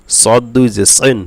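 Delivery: thick, full-mouthed s in সদ and সিন; সিন coloured towards "sen" by a heavy s; heavy Sad. Shown as a demonstration. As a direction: drill সদ, সিন with emphatic Arabic s, darkened vowels. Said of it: "সদ মোটা হবে".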